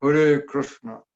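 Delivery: slow, full "Hare Krishna" with a clear r in Krishna; careful, drawn-out "Hare Krishna" with r and sh; Sanskrit-style pronunciation. Shown as a demonstration. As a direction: draw out "Hare Krishna", sounding every r. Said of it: "You don't say".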